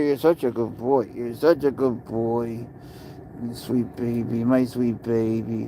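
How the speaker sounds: slow, tender cooing. Real, not acted. Owner cuddles his cat, slow tender cooing.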